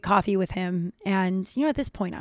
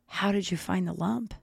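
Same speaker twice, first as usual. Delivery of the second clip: lightly creepy, softer questioning voice; 6 dB quieter than usual. Retold or imitated. Friend asks about her lump over coffee, mildly creepy. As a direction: imitate a man asking with quiet creepiness. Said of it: "It was creepy".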